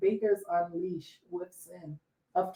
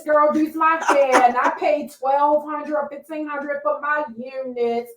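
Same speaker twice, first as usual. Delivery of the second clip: higher, louder boastful influencer voice; mock Instagram show-off; 5 semitones higher, 3 dB louder than usual. Podcaster mocking Instagram influencers, boastful. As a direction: brag like a perfect-life influencer. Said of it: "Instagram to me is like".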